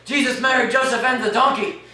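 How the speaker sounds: ranting Irish father. Acted. Father ranting to his wife about the blight, loud and high. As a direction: wail about the potatoes like the world is ending. Father despairs over dying potatoes.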